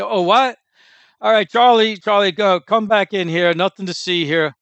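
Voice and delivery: hammed-up brush-off, sending Charlie back; mock dismissive cop. Mimicking police who dismiss a rape victim, loud mock brush-off.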